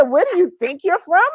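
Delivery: mock British accent. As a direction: repeat the actor's question as a lightly voiced Brit. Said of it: "He said".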